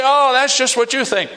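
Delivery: high mocking brush-off; scoffing retort. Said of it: "They say".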